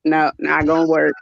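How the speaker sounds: lightly deepened no-nonsense husband. Retold or imitated. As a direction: shut it down like a husband who means business. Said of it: "only when he means business, his voice gets deeper".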